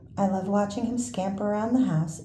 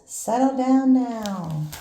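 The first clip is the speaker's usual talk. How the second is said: firm call; 4 semitones higher, 5 dB louder, slower than usual. Acted. Librarian tries to quiet room.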